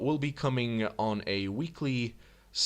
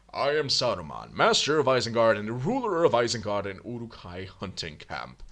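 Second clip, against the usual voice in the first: lightly voiced wizard lord; a hint of a grand ruler; Saruman; 3 dB louder than usual. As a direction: declaim it as a proud master, lightly put on. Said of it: "I know that's not what he sounds".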